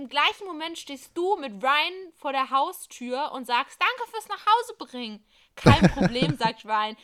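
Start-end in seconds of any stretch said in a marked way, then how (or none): 3.8-5.2 high, bright thanks; sweet thanks. Acted. Date thanks at door. 5.5-6.4 lower, loud casual reply; guy voice. Acted. Ryan answers at door.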